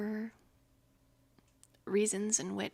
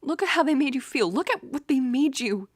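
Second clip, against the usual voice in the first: much louder, fast angry rant; furious outburst; 4 semitones higher, 9 dB louder than usual. Acted. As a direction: let the anger burst out, fast. Furious at the friend's abusers.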